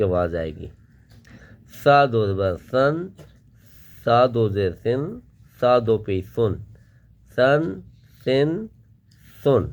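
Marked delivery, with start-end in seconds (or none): 1.8-9.6 soft سا with tongue edge to teeth. Shown as a demonstration. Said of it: "اس کی آواز کو بہرحال ہم نے نرم پڑھنا ہے".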